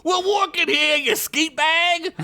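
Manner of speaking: loud high orc insult; angry orc bellow; orc shout. Acted. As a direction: yell at the unseen worker. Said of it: "Blimp shouted".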